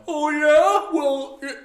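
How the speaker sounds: high, loud mocking comeback; mock angry retort. Gideon imagined snapping back at the angry men. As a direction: snap back like a hothead.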